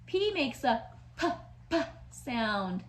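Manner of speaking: "p" said as a popped p sound. Shown as a demonstration. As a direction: pop the "p" sound. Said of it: "That's a fun sound".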